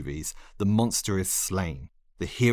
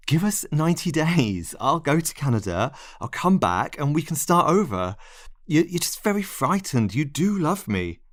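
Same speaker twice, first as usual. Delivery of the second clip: higher, urgent begging; cling on and beg; desperate pleading; 7 semitones higher than usual. Acted. Narrator clutching Lionel's feet, desperate higher begging.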